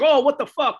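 high, loud mock shock; shocked exclamation. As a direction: blurt it out in acted disbelief. Retelling a shocked reaction to a body.

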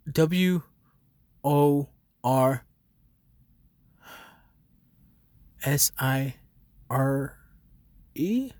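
W O R S I R E spelled letter by letter, rising at the end; spelling it out. Real, not acted. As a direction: spell Worcestershire out slowly. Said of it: "spelling the word out".

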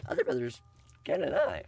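lightly put-on Canadian-ish accent; playful, slight Canadian accent; almost Canadian accent. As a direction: finish the quote with a hint of mock Canadian. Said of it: "almost Canadian".

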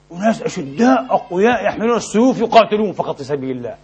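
normal talking voice

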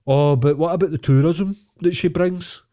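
parroting the other side with a sneer; mock royalist whine.

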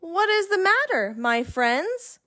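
mild, kindly little engine; gently concerned question, starting high; a touch of friendly concern; asking kindly. A narrator's reading. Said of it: "she asked kindly".

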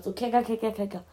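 chattering dolphin noise, fading; dolphin cackle imitation. Shown as a demonstration. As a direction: mimic a cartoon dolphin chatter. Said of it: "so ein Delfin-Keckergeräusch aus SpongeBob". (Delfin-Keckern nachmachen)

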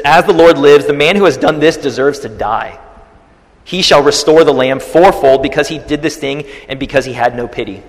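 loud, angry royal outburst; a king's furious vow, thundering. Retold or imitated. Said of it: "David's furious".

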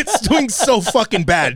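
laughing through the words. Real, not acted. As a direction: chuckle as you say it. Laughing while talking.

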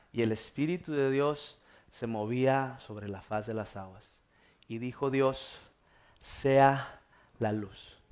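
slow, measured Bible reading; scripture reading. Real, not acted. Pastor reading Genesis to the congregation, solemn scripture reading. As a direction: read it slowly with weighty pauses.

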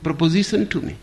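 loud, high indignant cry; a woman scandalised in a bar; strident outrage. Acted. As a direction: act offended at full volume. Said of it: "in a strident voice".

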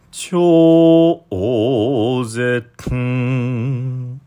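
絶 with the tsu swallowed, air out the nose as ん; nasal-swallowed tsu. Shown as a demonstration. Teacher demonstrating chant pronunciation of 絶. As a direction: say 絶 with closed mouth, breath through the nose. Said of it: "っていうふうにやってます。".

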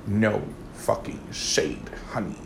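a slow, conspiratorial whisper; whispered aside. Real, not acted. Confiding to her viewers, whispered slowly. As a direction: whisper No fucking shade slowly under the breath.

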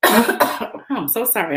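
coughing fit mid-sentence; choking and coughing, apologetic. Real, not acted. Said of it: "I don't know why I started choking".

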